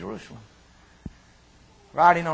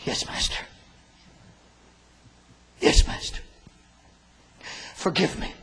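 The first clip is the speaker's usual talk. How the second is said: whispered confession; 3 dB louder than usual. Shown as a demonstration. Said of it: "what you should say".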